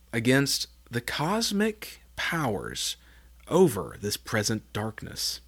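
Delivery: slow breathy whisper of the words; whispered slowly for effect; dramatic whisper. Acted. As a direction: hush it like a secret danger. Dramatic scripture reading.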